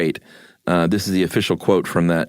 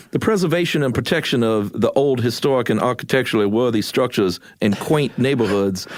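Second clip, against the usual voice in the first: put-on mid-Atlantic accent; 5 semitones higher than usual. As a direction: read it like an old newsreel in mid-Atlantic. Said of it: "read it in a mid-Atlantic accent".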